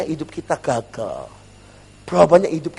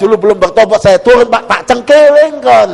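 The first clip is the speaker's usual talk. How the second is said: mock threatening shout; 6 semitones higher, 10 dB louder than usual. Preacher acting out his unconverted self, shouting a threat. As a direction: bellow it like a hothead picking a fight. Acts out threat from before conversion.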